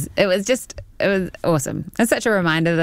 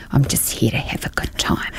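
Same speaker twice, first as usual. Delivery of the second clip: whisper; 3 semitones lower, 3 dB quieter than usual. Retold or imitated. Retold reply, whispered.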